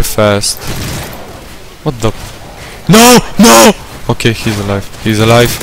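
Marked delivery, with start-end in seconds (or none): 2.9-3.7 man down shout. Real, not acted. Teammate about to die.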